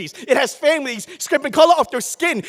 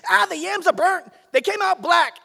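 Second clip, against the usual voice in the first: grandmother's scream; 4 semitones higher than usual. Retold or imitated. Grandmother in her kitchen screaming to the cooks, a retold yell. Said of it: "She screams out in Spanish".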